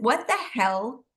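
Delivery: slow, stunned, half-muttered question; stunned disbelief. Retold or imitated. Telling friends how the kitchen-sink moment hit her, stunned and slow. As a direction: let the shock slow every word down. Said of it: "I literally said that".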